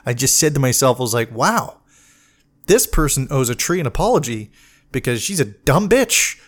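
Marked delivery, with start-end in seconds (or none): 1.3-6.4 disgusted rising mock rant; seething contempt, dragged out slowly; hateful inner monologue. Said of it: "the exact monologue that I had".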